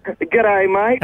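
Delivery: attempted Aussie greeting; American trying out an Aussie accent; Australian accent. Shown as a demonstration. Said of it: "Can, can you say".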